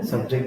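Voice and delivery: subject stressed as sub-JECT; "subject" with a weak SUB, strong JECT; stress on second syllable. Shown as a demonstration. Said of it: "the stress is on the second syllable".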